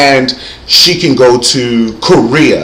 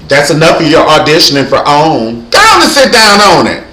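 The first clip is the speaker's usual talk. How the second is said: dismissive hater; 3 semitones higher, 5 dB louder than usual. Acted. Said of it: "haters gonna be like".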